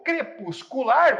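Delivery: "crepuscular" slow and loud, syllable by syllable; "crepuscular" broken into deliberate, separate beats; syllable-by-syllable counting. Shown as a demonstration. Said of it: "você conta até o final".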